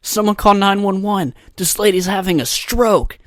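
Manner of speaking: high, urgent mock call for help; mock alarmed bystander. Bystander begs someone to call nine one one, mock alarm. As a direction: cry out like a panicked bystander, hammed up. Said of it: "because they'd be like".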